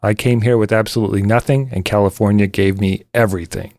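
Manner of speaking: put-on a light Arnold voice, Austrian accent; lightly imitating Arnold's Austrian accent; Schwarzenegger impression. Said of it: "the words of the Governator".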